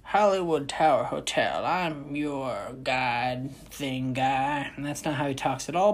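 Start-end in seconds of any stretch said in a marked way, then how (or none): 0.0-4.7 lightly voiced spooky hotel guide, slow; a hint of a creepy bellhop greeting; hotel host. Vlogger imitating the ride's hotel guide, lightly voiced. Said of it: "I don't know how to do his accent".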